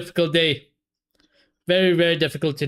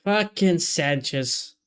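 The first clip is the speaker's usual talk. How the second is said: disgusted; much slower than usual. Real, not acted. Keeper error, disgusted.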